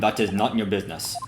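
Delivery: quiet "That is not your business" in a lightly Russian guard voice, stress on "is"; a hint of a Russian accent, firm refusal. Guard refusing again, light Russian accent. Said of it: "I might be trying to do their accent".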